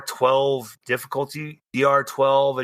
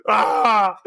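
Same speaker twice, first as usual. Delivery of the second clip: short raised yelp; cry at a slap; 4 semitones higher, 5 dB louder than usual. Acted. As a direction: yelp as if slapped.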